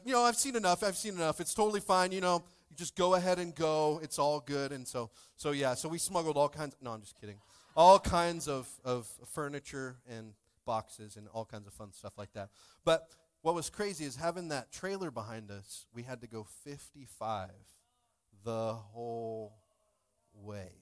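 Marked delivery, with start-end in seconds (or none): 0.0-4.7 flustered officer. Retold or imitated. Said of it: "he's like". 16.6-20.7 drawn out. Acted. Dragging out slow drive.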